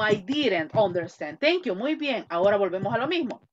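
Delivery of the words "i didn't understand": slow model answer. Shown as a demonstration. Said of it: "No entendí".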